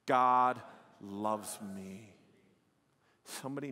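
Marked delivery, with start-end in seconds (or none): 0.1-2.1 very slow, every word drawn out; slower. Shown as a demonstration. Pastor showing the congregation how to say it, very slow. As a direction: stretch each word out slowly. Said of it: "now just say it a little bit slower, but just as loud".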